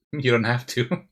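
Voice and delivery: laughing through the reply; amused, laughing comeback; laughing retort. Retold or imitated. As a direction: chuckle while brushing off the critics. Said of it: "And I told them".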